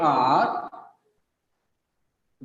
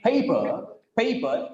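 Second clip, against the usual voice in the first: "paper" with a strong first beat, weak second; rhythmic word stress. Shown as a demonstration. Teacher showing English rhythm to class, stressed first syllable. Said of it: "here comes the rhythm".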